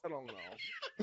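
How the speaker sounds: tiny high clueless squeak; squeaky Stacy voice. Pretend. Answering the co-host as Stacy, tiny squeak. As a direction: stay in the silly squeaky character.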